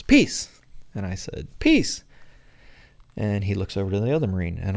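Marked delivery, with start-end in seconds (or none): 0.0-0.6 high, loud shouted greeting; kid's yell. Retold or imitated. Little boy running up to the Marines, high loud yell. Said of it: "and he yells". 1.6-2.0 high, loud call back; shouted reply. Retold or imitated. Marine answering the boy's greeting, high loud shout.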